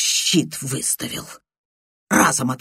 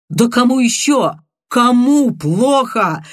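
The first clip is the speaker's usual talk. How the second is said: heated, bitter shout; 8 semitones higher, 6 dB louder than usual. Acted. Viktor flaring up at his friend, a heated bitter shout. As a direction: hurl the question back, furious. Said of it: "Запальчиво, озлобленно крикнул он".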